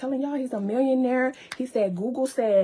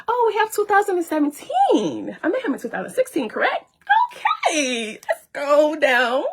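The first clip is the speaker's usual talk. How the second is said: loud, laughing through the words; cracking up while reading; 3 semitones higher, 6 dB louder than usual. Real, not acted. Laughing out loud to viewers over the receipts.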